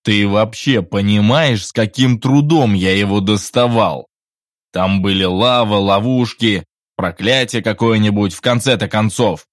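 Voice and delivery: loud outraged protest; indignant. A narrator's reading. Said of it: "возмутился Генри". (возмущённо)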